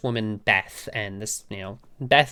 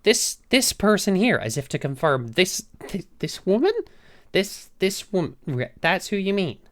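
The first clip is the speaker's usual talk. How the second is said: a higher, faltering voice checking "this woman?"; disbelieving manager; 5 semitones higher than usual. Retold or imitated. Manager double-checks with the assistant, faltering disbelief. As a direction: stammer it out in disbelief.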